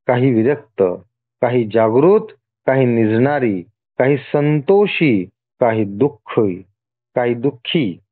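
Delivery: deliberate list, a pause after each item; measured scripture reading. Acted. God listing his many forms to the devotee, measured reading. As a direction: read it out phrase by phrase.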